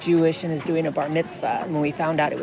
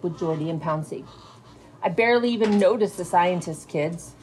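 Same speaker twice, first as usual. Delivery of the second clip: expressive read-aloud of a novel to fifth graders; teacher reading a novel aloud to her fifth grade class. A narrator's reading. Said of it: "Teacher reading aloud".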